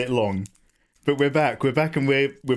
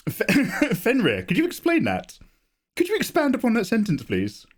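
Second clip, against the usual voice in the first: excited demand; 8 semitones higher than usual. Real, not acted. Demanding details from chatter.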